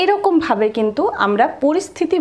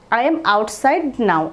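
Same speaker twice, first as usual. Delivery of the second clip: slow model phrase; much slower than usual. Shown as a demonstration. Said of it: "এটার জন্য বলবো".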